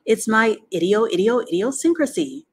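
high, loud stuttering gander voice. A narrator's reading. Gander explaining his repeating habit, high and insistent. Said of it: "replied the gander".

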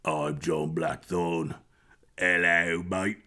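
low, slow, smooth English voice; John Blackthorne. Retold or imitated. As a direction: purr it, velvety and deep. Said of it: "He's got a very sexy voice".

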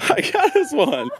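slow, high, tearful; choked up. Real, not acted. Showing girlfriend the puppy, tearful joy. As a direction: voice catching with emotion. Emotional moment at reveal.

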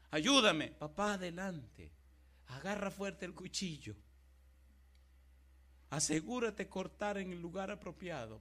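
loud, urgent son's plea; Isaac urging his father. Acted. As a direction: push him on, son to father, loudly.

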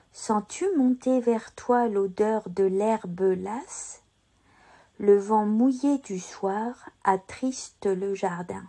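slow, drawn-out poetry recitation; model verse reading. Shown as a demonstration. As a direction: recite slowly for a learner to repeat, sounding each E before a consonant. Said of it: "répéter après moi pour t'entraîner". (diction poétique lente, à répéter)

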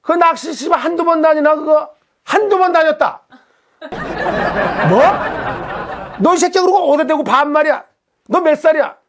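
high-pitched heated cursing with a laugh; angry swearing. Retold or imitated. Angler cursing out the beginner across the water, heated and high. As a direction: pick a fight, swearing and half-laughing. Escalating quarrel between anglers.

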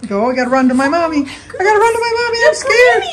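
high, whimpery little dog voice; voicing the dog. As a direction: squeak it out as the scared pup.

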